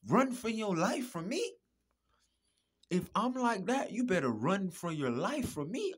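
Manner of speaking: loud warning. Real, not acted. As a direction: yell the warning. Warning listeners loudly.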